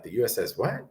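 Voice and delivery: imitated baffled sailor, rising on WHAT; mildly mock a confused double-check; puzzled query. Sailors puzzled by unknown ship name.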